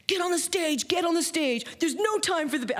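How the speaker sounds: high, urgent imitation of a yelling promoter; retold yelling. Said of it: "he's yelling at me".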